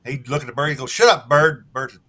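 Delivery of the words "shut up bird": pirate yelling. Acted. Pirate yells at bird.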